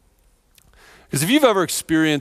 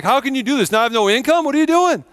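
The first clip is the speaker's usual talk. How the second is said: retold anger; 8 semitones higher, faster than usual. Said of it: "I was angry at Bill Lenz".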